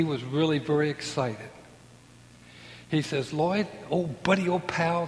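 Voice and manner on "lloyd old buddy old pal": lightly voiced cheerful friend, a touch higher; imitating Daniel. A hint of Daniel greeting the narrator fondly. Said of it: "that's the way he spoke".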